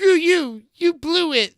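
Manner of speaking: high, loud mock puppet heckle; Kermit voice. Joining in on the heckler bit, high loud puppet voice. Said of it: "the Kermit, uh, voice".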